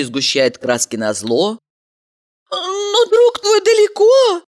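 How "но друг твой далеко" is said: unsure objection. A narrator's reading. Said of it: "неуверенно возразила она".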